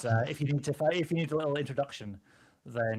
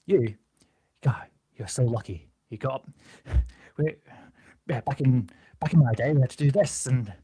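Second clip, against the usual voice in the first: gruff toughness, no accent; 6 dB louder than usual. Shown as a demonstration. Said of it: "give it that same toughness, that gruffness".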